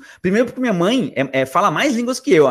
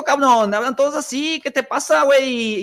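high, singsong Mexican accent; Mexican Spanish accent; 8 semitones higher than usual. Shown as a demonstration. Guest showing how Mexicans talk, high mock Mexican accent. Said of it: "E se for para México".

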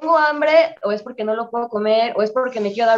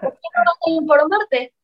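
gentle suggestion; 6 semitones higher, 4 dB louder than usual. Shown as a demonstration. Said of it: "así tal cual".

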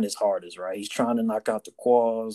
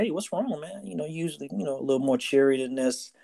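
much higher, light and caring; concerned cheery check; 4 semitones higher than usual. Retold or imitated. Sailor asking a gloomy shipmate what's wrong, higher and caring. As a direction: coax him to open up.

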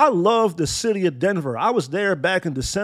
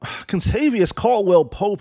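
slow, sighing letdown of a name; weary sigh; slower than usual. Real, not acted. Fan sighs at the former Laker's name, slow and weary. Sighing before disparaging the player.

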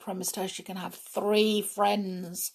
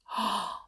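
gasp; 3 semitones higher, 5 dB quieter than usual. Acted. Puzzled gasp before asking who.

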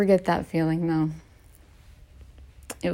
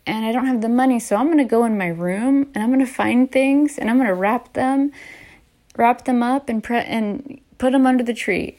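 put-on higher, eager little-kid voice; 5 semitones higher than usual. Young child planning gifts for family, eager higher kid voice. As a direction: play her young self planning secret gifts, pitched up. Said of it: "I was like".

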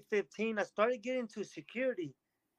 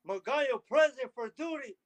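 crisp, louder military report, a bit higher; soldier reporting in; 4 semitones higher, 5 dB louder than usual. Retold or imitated. Soldier reporting to his new reserve unit, loud and formal. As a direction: snap to attention and sound off your name.

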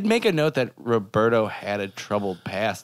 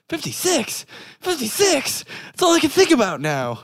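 very high, squeaky quote voice; high cartoon voice; 13 semitones higher than usual. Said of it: "I love".

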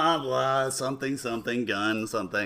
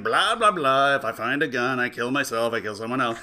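mock exasperated kid; 3 semitones lower, 4 dB louder than usual. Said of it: "he's like".

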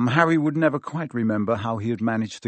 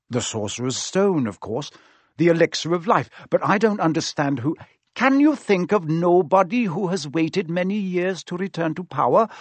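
calm, grave centaur voice; 5 semitones higher, 3 dB louder than usual. A narrator's reading. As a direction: speak as a solemn centaur. Firenze speaking in story.

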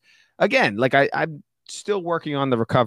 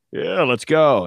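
mock eager; 5 semitones higher, 6 dB louder, slower than usual. Husband voiced eager in story.

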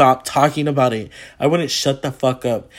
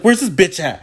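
higher mock-demanding call; eager demand; 4 semitones higher, 4 dB louder than usual. Hearing a famous actress is here, eager demand. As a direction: call out as if hunting for someone. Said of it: "I was like".

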